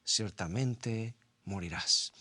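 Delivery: la voz de Dios, lenta y solemne; solemn God's word. Retold or imitated. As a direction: pronounce it slowly like a sentence. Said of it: "la voz de Dios ... dice".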